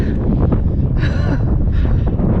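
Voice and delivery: high, loud exhale; big sigh. Real, not acted. Hiker glad she did it, big sigh. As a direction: puff out a relieved breath. Reached the top, winded.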